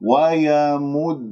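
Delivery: slow ويمدهم with held d released into u; doubled dal, full damma. Shown as a demonstration. Teacher draws attention to the vowel, slow careful recitation. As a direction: round u on both sides of the double d in ويمدهم. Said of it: "انتبهوا لهذه الحركة".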